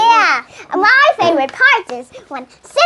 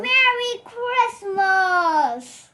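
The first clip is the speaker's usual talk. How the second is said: Santa greeting; 3 semitones higher, 7 dB quieter, much slower than usual. Acted. Child plays Santa greeting.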